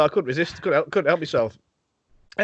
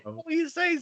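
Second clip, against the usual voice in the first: lightly mimicking Suki's garbled voice, higher; mock impression of Suki; 13 semitones higher, 4 dB quieter than usual. Teasing co-host with a light impression of his line. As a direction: parrot back a friend's broken-up line, a touch higher. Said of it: "so I did an impression of you".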